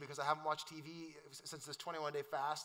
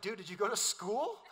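laughing teasing. Retold or imitated. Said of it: "It's like".

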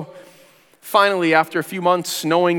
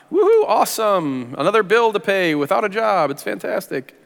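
sarcastic; 4 semitones higher than usual. Retold or imitated. Car repair bill without a job.

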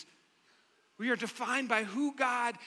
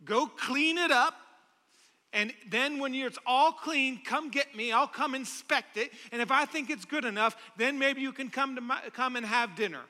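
higher, put-on accent for a distant, bossy God; lightly accented stern taskmaster; 5 semitones higher than usual. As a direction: order it like a demanding parent, in a light put-on accent. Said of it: "I put an accent there".

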